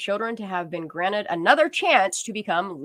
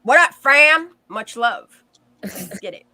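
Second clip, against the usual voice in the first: imitating a YouTuber greeting; 3 semitones higher, 8 dB louder, slower than usual. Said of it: "Ain't that what he say?".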